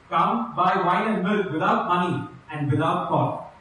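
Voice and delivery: measured, solemn reading of the passage; scripture reading. Acted. Preacher reading Isaiah to the congregation, solemn. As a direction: read it out to the congregation with weight. Reads Isaiah fifty-five aloud.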